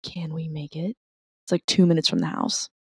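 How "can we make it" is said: softly wondering aloud; small, hushed acted question; tentative question. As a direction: ask it quietly, half hopeful. Acted hopeful question near closing.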